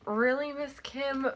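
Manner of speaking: slow, high incredulous really; exasperated. Real, not acted. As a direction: drag it out in disbelief. Exasperated at teacher.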